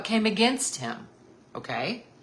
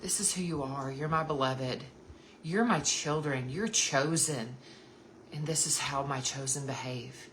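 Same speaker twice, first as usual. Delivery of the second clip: softer, tender affirmation; gentle reassuring God; 5 dB quieter than usual. Pretend. God telling his beloved children who they are, tender. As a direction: speak it like a loving father. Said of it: "He says".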